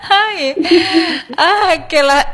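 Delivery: coughing and laughing after choking; choked up, laughing through a cough; choking on drink. Real, not acted. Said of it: "Jadi keselak".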